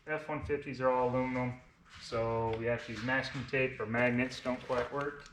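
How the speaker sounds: slight lisp from braces; talking through new braces, lisping. Real, not acted. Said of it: "Sorry for my list. I have, uh, braces on".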